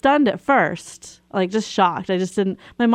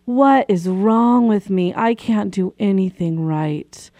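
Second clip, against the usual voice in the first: self-blaming panic. Retold or imitated. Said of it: "I had a choice to think".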